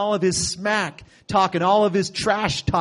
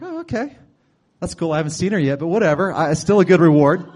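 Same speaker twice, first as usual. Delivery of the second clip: put-on casual teen; 5 dB louder than usual. Joking David voice about reward.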